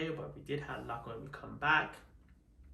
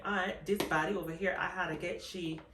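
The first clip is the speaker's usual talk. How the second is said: put-on Bajan accent; 3 semitones higher than usual. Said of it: "Should I do the Bajan accent?".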